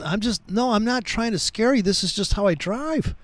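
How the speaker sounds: mock-innocent, understated reassurance; imitated mild manner. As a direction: lightly imitate a mild-mannered driver explaining himself. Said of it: "he's mild-mannered as all can be".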